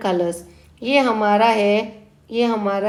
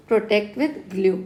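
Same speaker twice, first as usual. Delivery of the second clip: slow mnemonic drill; much slower than usual. Shown as a demonstration. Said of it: "with glue बोल दो इसको".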